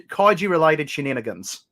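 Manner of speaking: lightly put-on Australian accent; playful mock-Australian delivery; Australian accent demo. Shown as a demonstration. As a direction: show off the phrase in Australian. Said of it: "That's, that's Australian".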